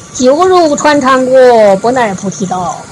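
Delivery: each word of the verse laid down slowly; slow pointed recitation. Acted. Master reminds the ox of his boast, slow and pointed. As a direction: quote his own words back at him, deliberately.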